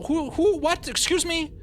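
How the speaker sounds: startled high-pitched excuse me; baffled squeak. Real, not acted. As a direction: squeak out the confusion. Baffled by odd name mix-up.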